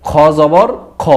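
"খ জবর খ" with the throaty Arabic kha, short a; Arabic kha with fatha. Shown as a demonstration. Teacher demonstrating Arabic kha to students, careful throaty sound. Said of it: "আরবিতে আছে খ".

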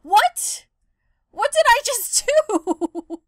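high, loud disbelieving what; startled gamer shouting at a glitch; shocked. Real, not acted. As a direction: yelp in real disbelief at the screen.

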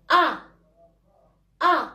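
أ with the mouth opened upward into "a"; teacher modelling أ as a lone "a" vowel; fatha sound. Shown as a demonstration. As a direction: say أ as an open "a". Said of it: "الشفتين الفوق غنطلعوها للفوق".

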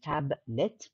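"tablet" said as two separate beats, tab-let; split into syllables. Shown as a demonstration. Teacher showing students two-syllable words, "tablet" split in two. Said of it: "كلمات عندها two syllables".

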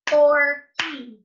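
FORKY split into two loud beats, FOR-KY; Forky in two firm beats; clapped-out syllables. Shown as a demonstration. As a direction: punch each syllable of Forky separately. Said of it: "clap it out like this".

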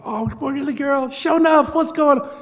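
high, loud, lively Black Southern vernacular with a hometown friend; homegirl talk. Retold or imitated. On the phone with a homegirl from Beaumont, loud and high in home vernacular. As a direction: switch into your hometown voice, bright and loud. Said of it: "That's how we talk".

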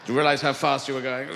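stern cop pulling someone over; policeman voice. Acted.

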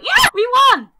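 loud, high victory cheering; real elation, voice soaring then settling; overjoyed. Real, not acted. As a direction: shout it out in triumph. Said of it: "I am so happy".

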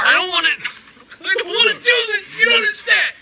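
tearful, cracking whine; blubbering. Acted. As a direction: blubber through the words. Beaten champion breaks down.

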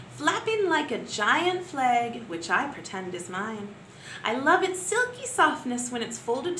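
put-on gentle, expressive read-aloud for young pupils; poem for children. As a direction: savour each image as if showing a picture book. Teacher reads poem to pupils.

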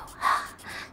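short breathy gasp; mock gasp. Firefly reacting to Twig, short gasp. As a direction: draw a quick breath in.

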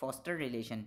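'foster relation' with the linking R sounded; clear R in 'foster relation'. Shown as a demonstration. Teacher models British English, R pronounced in 'foster relation'. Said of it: "आर को proper वाजे के साथ pronounce करेंगे".

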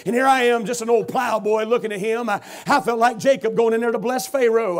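preacher lifting into fervor; building sermon. Acted. Preacher stirring the congregation toward the climax. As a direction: rise into the sermon.

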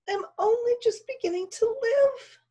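very high, tearful small voice; plaintive whisper. A narrator's reading. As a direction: lament in a thin voiced near-whisper. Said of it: "Pearl whispered back".

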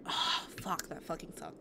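under-breath muttered curse. Real, not acted. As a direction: mutter it to yourself. Muttered swearing.

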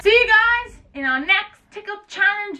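giggling. Real, not acted. Signing off still laughing.

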